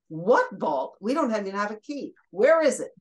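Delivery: mock bewilderment, punching the questions; baffled questioning. Station staff answering the janitor's flood warning, mock baffled. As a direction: retell it as incredulous questions, peaking on the last one.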